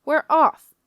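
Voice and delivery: loud, high shout of departure; yelled order. A narrator's reading. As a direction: yell the order across the deck. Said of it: "Skipper Fry yelled at Jakey".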